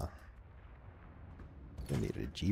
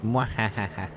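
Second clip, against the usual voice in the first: mad scientist; slower than usual. Acted. Gloating over killing Ernie.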